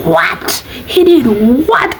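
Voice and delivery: can't believe what she's hearing; shocked disbelief. Retold or imitated. Friend hearing shocking news.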